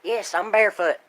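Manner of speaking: shouted toward the door; calling out. Real, not acted. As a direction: call it out loud to the next room. Answering someone at the door.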